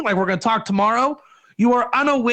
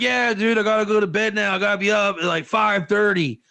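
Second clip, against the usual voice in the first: a hint of a casual guy begging off to bed; lightly voiced buddy. Husband telling his buddy he must sleep, lightly voiced casual. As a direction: toss it off like a tired friend on the phone. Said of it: "You're like".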